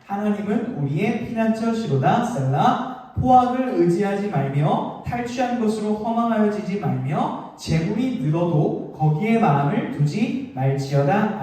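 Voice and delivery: slow, measured reading of the psalm; solemn unison Bible recital; scripture reading. Shown as a demonstration. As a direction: read it out slowly together. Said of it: "팔 절과 십 절 시작!".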